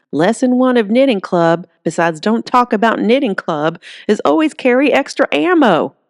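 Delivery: bossy granny laying down the law; feisty granny. Acted. Granny lectures about ammo.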